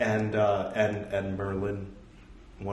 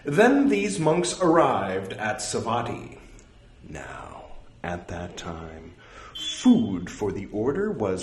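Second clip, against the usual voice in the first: slightly louder, careful recital voice; scripture reading; 7 semitones higher, 7 dB louder, slower than usual. Acted. Reading a monastic rule aloud to his audience, measured recital. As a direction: read the old text out with measured weight.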